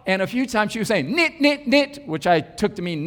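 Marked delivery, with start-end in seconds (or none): 1.2-2.1 high-pitched mimicked objection; quick, high little noises of disagreement; disapproving. Heckler contradicting the preacher mid-sermon, imitated disapproval. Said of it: "There was some strong disagreement".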